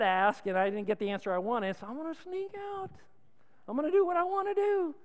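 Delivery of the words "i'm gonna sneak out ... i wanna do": put-on defiant kid. Kid voiced deciding to sneak.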